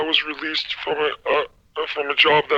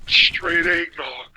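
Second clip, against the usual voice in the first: laughing; much slower than usual. Real, not acted. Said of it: "You can't say without laughing".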